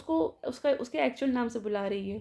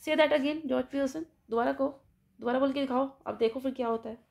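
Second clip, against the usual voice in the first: angry challenge; 2 semitones higher than usual. Retold or imitated. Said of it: "फिर से गुस्से में उठ जाती है".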